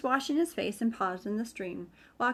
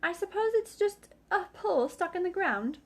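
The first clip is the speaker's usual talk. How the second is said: Rabbit; 5 semitones higher than usual. A narrator's reading. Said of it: "said Rabbit".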